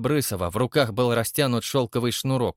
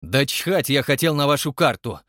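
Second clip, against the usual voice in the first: angry retort; 3 semitones higher, 5 dB louder than usual. Acted. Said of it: "бросил он".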